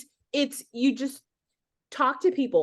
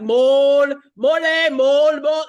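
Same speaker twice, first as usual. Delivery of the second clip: Austin Powers mole bit; 3 semitones higher, 11 dB louder, slower than usual. Retold or imitated. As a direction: blurt it over and over, uncontrollably. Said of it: "Austin Powers with the guy with the mole".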